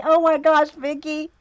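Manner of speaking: Oh my gosh thrown out high and loud with glee; excited oh my gosh. Real, not acted. Excited reaction to friend Vicky.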